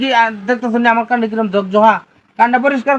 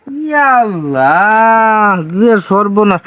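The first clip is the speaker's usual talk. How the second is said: shocked; 4 dB louder, much slower than usual. Acted. Shocked at dirty ear.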